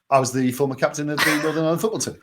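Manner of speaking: fast, slightly mocking candidate voice; rushed mock Dougan answer. Answering the interviewer as Dougan, fast and evasive. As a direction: gabble it like a dodgy candidate dodging questions.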